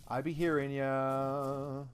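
slow, stretched out; "I be hearing ya" said slowly with "hearing" stretched; drawn out. Shown as a demonstration. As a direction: drag out "hearing" lazily. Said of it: "repeat drawn out".

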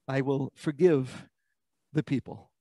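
quiet relenting. Retold or imitated. God agreeing to spare the people, quietly relenting. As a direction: relent softly, voice dropped. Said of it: "And God says".

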